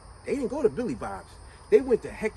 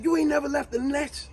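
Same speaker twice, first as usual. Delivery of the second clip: mocking retort; 8 semitones higher than usual. Jody mocking his mother.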